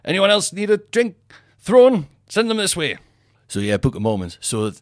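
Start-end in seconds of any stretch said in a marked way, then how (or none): 0.0-3.0 resigned sarcasm. Retold or imitated. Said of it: "You just go".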